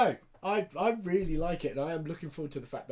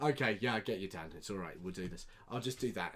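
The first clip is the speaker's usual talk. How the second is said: lower, softer, soothing put-on; lightly voiced sly brother, talking him round; mock reassuring brother setting up a trick; scheming brother; 7 semitones lower, 6 dB quieter than usual. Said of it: "he does the whole".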